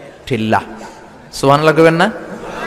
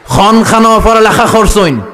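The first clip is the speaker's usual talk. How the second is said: higher, louder Sylheti questioning; Sylheti man; 6 semitones higher, 5 dB louder than usual. Retold or imitated. Sylheti man questions preacher on the way to Qatar, loud and high. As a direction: ask it like a curious Sylheti stranger. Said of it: "সিলেটে এক লোক বসছে".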